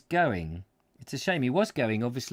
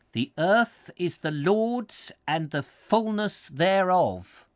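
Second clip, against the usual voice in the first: solemn scripture reading; 6 semitones higher, 3 dB louder, slower than usual. Acted. Reading a pious inn sign.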